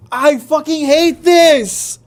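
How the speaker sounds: real angry shout at the game. Real, not acted. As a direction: shout the hatred at the screen. Raging at the game.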